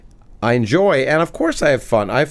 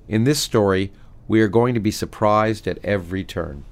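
reading from his book; 4 semitones lower than usual. Acted. Author reading his book passage aloud to the host, measured. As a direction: read the passage aloud to the host, steady and deliberate. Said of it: "he always reads something from his books".

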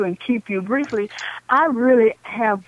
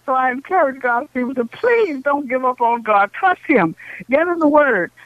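fervent lay preaching, pitch raised; 3 semitones higher than usual. Real, not acted. Caller preaching to radio listeners, fervent exhortation. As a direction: urge the saints on, preacher style.

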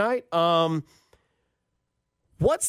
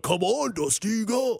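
terrible impersonation of a haunted-house monster; badly imitated scary character urging someone on; scary haunted house actor; 3 semitones higher than usual. Scare actors egging Dusty down the slide, hammed-up scary voice. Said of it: "that's a terrible impersonation".

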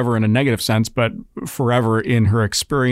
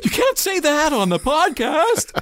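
laughing; slower than usual. Real, not acted. Laughing protest.

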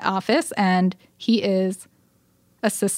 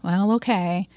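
mildly reluctant giving-in; a touch of retold reluctance; begrudging agreement. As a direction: agree as if against better judgement.

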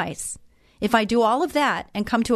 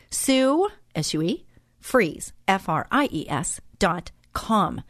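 deliberate, name then letters, in separate chunks; careful spelling out; slower than usual. Shown as a demonstration. Host repeats the web address for listeners, carefully spelled out. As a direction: spell it out clearly for note-takers. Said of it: "One more time".

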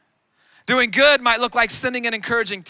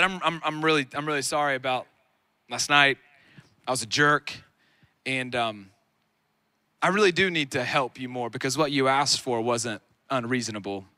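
soft apology; 7 semitones lower, 5 dB quieter than usual. Retold or imitated. Retold apology to his wife.

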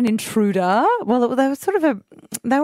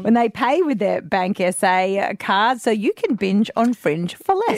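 live ad read. Acted. Live sponsor read on air.

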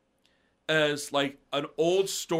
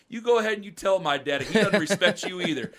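cheeky comeback through laughter; laughing taunt; 3 semitones higher than usual. Retold or imitated. Teen laughing as he taunts a drunk customer. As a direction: laugh while you dare him to tell.

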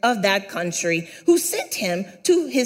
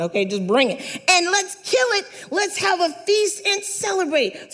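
excited father; 4 semitones higher than usual. Acted. Father calls servants to prepare a feast, excited. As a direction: build into celebratory excitement.

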